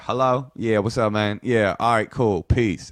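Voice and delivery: lightly put-on Black American accent; affected Black accent. Answering a friend's phone call, affected Black accent. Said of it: "affected a black accent".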